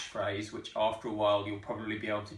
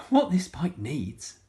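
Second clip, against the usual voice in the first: slow, louder, drawn out; slow emphatic; 5 semitones higher, 6 dB louder, slower than usual. Acted. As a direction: lay it out slowly and firmly. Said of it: "said Missus Armitage".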